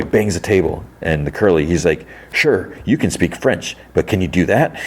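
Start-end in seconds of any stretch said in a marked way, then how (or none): 2.3-4.8 lightly acted jerk putting someone down; retold meanness. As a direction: needle them with a touch of condescension. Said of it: "he's mean to her".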